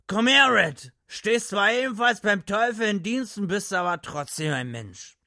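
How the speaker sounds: put-on high, very loud drunken call. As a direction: bellow him over drunkenly. Drunk Gatlin calls Red.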